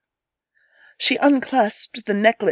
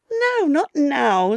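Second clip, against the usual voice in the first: put-on slow, teasing young girl; lightly played coy girl; 4 semitones higher, slower than usual. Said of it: "said the girl".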